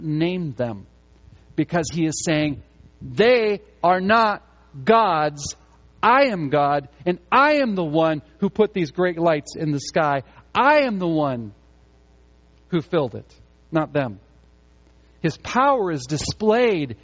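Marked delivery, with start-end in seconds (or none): 3.0-14.2 emphatic voice of God. Acted. Preacher voices God's declaration.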